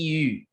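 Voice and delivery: U said as a rounded front vowel. Shown as a demonstration. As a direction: say U with pursed lips. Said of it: "You get the sound U".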